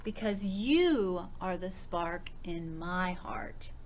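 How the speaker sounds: slow, hushed loving whisper; tender whisper. Acted. Mama reassuring Little Dragon, a slow tender whisper. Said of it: "Mama said".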